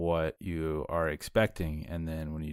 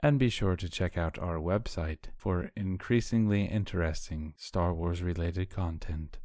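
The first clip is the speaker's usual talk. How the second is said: computer voice. Pretend. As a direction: read it like a pleasant robot. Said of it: "That's a good computer voice".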